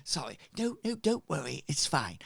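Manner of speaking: lightly voiced apologetic crowd; flustered followers. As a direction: scramble to apologise. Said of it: "And they go".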